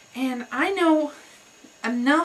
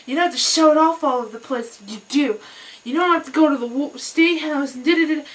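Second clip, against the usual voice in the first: louder, lecturing rant; ranting stranger; 3 semitones higher, 5 dB louder than usual. Retold or imitated. Stranger on the bus lecturing the speaker, a loud rant. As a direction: hammer it at him like a scolding stranger. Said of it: "And he's like".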